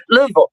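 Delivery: Louisville said as "Luh-vul", two syllables; local Louisville. Shown as a demonstration. Local naming her home city as "Luh-vul". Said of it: "We call it Louisville".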